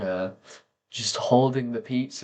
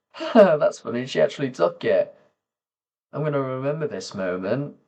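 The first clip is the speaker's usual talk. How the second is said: higher, quick thought to self; retold pleasant surprise, pitched up; amused surprise; 5 semitones higher than usual. Quoting own amused thought.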